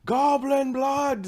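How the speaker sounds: high, slow, booming proclamation; Dimitri's rousing cry. Acted. Game master as a character at the gates, rousing cry. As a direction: call it out to the whole crowd. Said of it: "says Dimitri".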